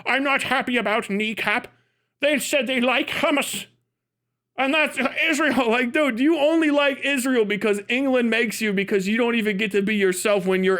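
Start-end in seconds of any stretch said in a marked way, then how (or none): 0.1-5.7 loosely mocked Northern Irish accent. Streamer imitating offended Northern Irish people, mock accent. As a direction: put on a half-hearted Northern Irish accent. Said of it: "Can't even do your funk ass accents".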